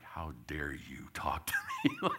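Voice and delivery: whispered, slow imagined thought; voicing the angry boy's silent glare; whispered kid thought. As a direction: whisper what the kid's thinking.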